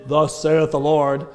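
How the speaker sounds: slow, grand scripture quote; mock solemn. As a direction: intone it like a preacher, slowly. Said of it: "you think you're saying".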